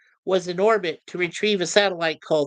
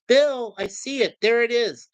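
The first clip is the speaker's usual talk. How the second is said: higher, lightly yelled exclamation; mock yell; 5 semitones higher than usual. Host retelling Pam spotting the shuttle, mild mock yell. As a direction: retell her sudden shout with a mild lift. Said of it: "Pam suddenly yells".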